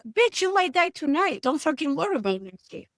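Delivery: high, punchy reply; blunt comeback. Retold or imitated. Therapist telling an anxious client to live today, blunt and high. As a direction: cut the worry short.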